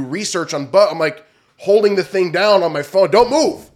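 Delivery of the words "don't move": loud, intent voice to a tiny bug; talking to a bug. Retold or imitated. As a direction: order the bug to hold still.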